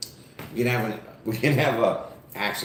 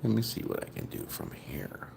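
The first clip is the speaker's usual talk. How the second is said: soft unvoiced whisper; whisper to self; 11 dB quieter than usual. Real, not acted. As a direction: mutter to yourself while fiddling. Muttering to self at device.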